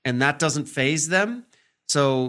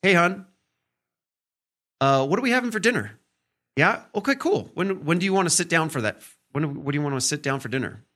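higher, fast, friendly and easy; husband gently asking his wife about dinner; gentle asking; 3 semitones higher, faster than usual. Shown as a demonstration. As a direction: ease in gently with a bright lift. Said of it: "another way I could phrase that".

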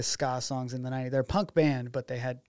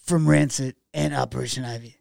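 lightly raspy punk singer, louder; a hint of rasp, imitating a singer; impression of a punk singer; 5 dB louder than usual. Filmmaker imitating a punk singer introducing himself, lightly raspy impression. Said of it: "that raspy voice".

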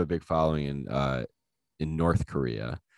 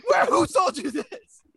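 very high hammed-up interrogation; strained falsetto, bursts of loud demands; frantic questioning; 5 dB louder than usual. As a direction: play a frantic old man in falsetto. Acted frantic questioning in skit.

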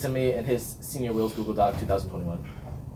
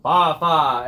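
loud, drawn-out nonsense cheer; demonstrated band yell; 7 dB louder than usual. Shown as a demonstration. Band captain showing what gets yelled, loud. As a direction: throw out a rallying cheer. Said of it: "all the things I yell".

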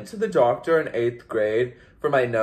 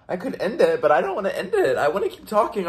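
giggling through the words; light laugh while talking; 8 semitones higher, faster than usual. Real, not acted. Giggling, admitting she can't stop talking.

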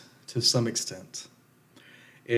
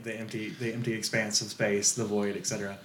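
dead voice; 7 dB quieter than usual. Shown as a demonstration. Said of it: "let your voice just, like, die".

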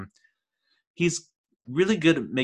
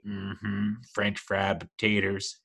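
put-on Sling Blade accent; 4 dB quieter, much slower than usual. Reviewer imitates Billy Bob's Sling Blade Southern accent. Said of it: "Sling Blade with the accent".

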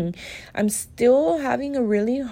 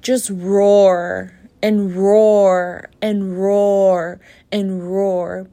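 slow, drawn-out roars, much louder; roaring; 6 dB louder, much slower than usual. Shown as a demonstration. Speaker letting out the anger she holds, roaring. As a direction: let each roar stretch out long. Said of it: "I wanna yell so loud".

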